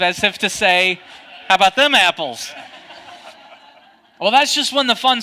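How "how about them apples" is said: loud passive-aggressive gloat. Retold or imitated. Golfer showing off to the group behind, passive-aggressive. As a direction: taunt them, louder than usual. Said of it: "'cause that was passive-aggressive".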